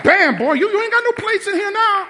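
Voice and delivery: high, loud, laughing taunt. Retold or imitated. Dad gloating to his son over the broken plate, loud. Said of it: "dad after breaking plate".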